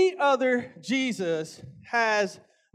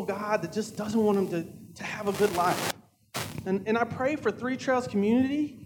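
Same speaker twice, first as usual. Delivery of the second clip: prayer; 2 semitones lower than usual. Real, not acted.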